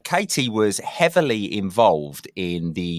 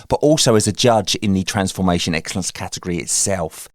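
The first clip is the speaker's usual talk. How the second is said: podcast intro read; 3 dB louder than usual. Acted. Podcast intro read over music.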